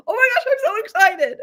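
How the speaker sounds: high, loud squeal of joy; excited squeal. Real, not acted. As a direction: shriek it out with glee. Squealing at book news.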